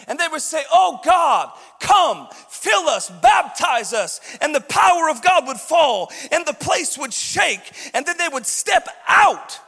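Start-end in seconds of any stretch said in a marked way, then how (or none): 0.7-4.2 loud, slow, fervent cry to God; shouted prayer. Retold or imitated. Acted prayer for God's power. 4.4-9.6 loud preacher building to a shout; fiery preaching. Acted. Preaching at full force.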